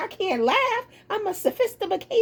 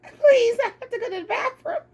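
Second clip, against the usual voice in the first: laughing plea; 4 semitones higher than usual. Retold or imitated. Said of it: "Mary said".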